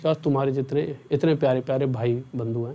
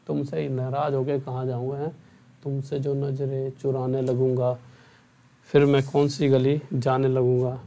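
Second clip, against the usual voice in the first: slow, measured recitation, dropping softer at first; verse-like recital; 3 semitones lower, 3 dB quieter than usual. Acted. Teacher reassuring his students in verse, slow recital. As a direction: recite it slowly like a tender couplet.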